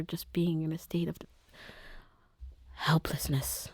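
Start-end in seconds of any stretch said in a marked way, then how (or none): 2.7-3.7 "helplessness" whispered, falling away; "helplessness" as a sinking whisper; whispered word. Real, not acted. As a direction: breathe "helplessness" out with a falling tune. Describing her despair.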